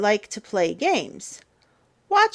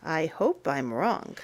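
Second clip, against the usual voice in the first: quiet worry; 4 semitones lower, 8 dB quieter than usual. Acted. Scary thought ending.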